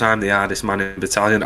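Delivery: low, quiet, fast tough-guy boast; mock hard man. Drunk guardsman bragging to the lads, low and quiet. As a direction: mutter it like a drunk bully. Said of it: "He goes".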